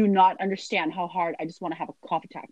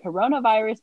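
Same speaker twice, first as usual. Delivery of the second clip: mock accusing; 5 semitones higher, 6 dB louder than usual. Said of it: "be like".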